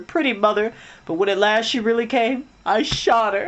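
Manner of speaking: tearful. A narrator's reading. Toodles confessing, tearful.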